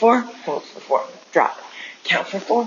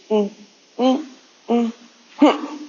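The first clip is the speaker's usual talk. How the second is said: angry humming; 5 semitones higher than usual. Shown as a demonstration. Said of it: "I had to do some humming".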